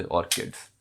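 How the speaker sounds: teaching ऑर्किड्स with the k sound; careful correct pronunciation. Shown as a demonstration. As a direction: spell out ऑर्किड्स with a clear k. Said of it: "समझे?".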